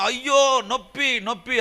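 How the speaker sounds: high, restrained mock wail; imitated pained cries. Injured wife crying out after the crash, imitated pained cries. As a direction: act out a hurt woman crying in pain. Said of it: "అని అరుస్తుంది".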